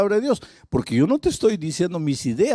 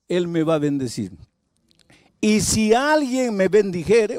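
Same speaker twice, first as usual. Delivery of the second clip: self-assured demand. Acted. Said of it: "Pero esa es otra actitud".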